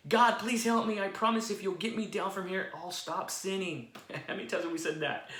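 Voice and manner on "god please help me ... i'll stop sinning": pleading. Acted. Jack begging God on cliff.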